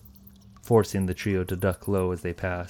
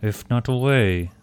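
sly grinning tomcat; 5 dB louder than usual. Acted. Tarkus grinning reply.

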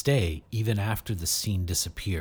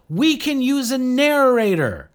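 excited; 14 semitones higher, 7 dB louder than usual. A narrator's reading. Asha excited about the idea.

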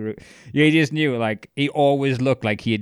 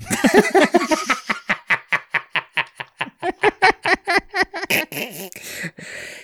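big high-pitched burst of laughter. Real, not acted. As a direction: cackle helplessly at the quote. Cracking up at quote.

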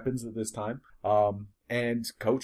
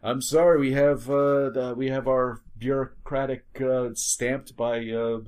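raised, fussy official voice; officious bureaucrat; 4 dB louder than usual. Pretend. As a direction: play a petty official reading out orders. Acted bureaucrat commandeering the vehicle.

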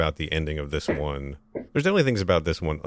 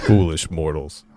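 slow theatrical villain menace; 5 dB louder, slower than usual. Acted. Gag voice after failed first try.

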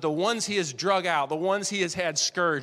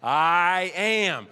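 "I am" called out loud; proclaimed divine name; 6 dB louder than usual. Acted. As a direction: proclaim it like thunder. God's name to Moses.

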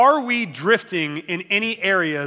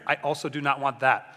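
mock bored wife; 4 semitones lower than usual. Wife voiced in dinner skit.

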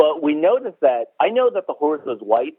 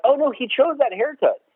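mock dismay; 10 semitones higher than usual. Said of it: "So I'm like".

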